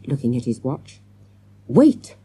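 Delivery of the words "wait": high, loud gasped plea. A narrator's reading. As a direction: gasp it out urgently. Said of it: "the man gasped".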